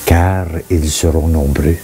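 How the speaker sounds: measured recitation with pauses between phrases; solemn scripture reading. Acted. Reading Ecclesiastes aloud for listeners to reflect on, measured scripture reading. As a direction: read it as sacred verse, phrase by phrase.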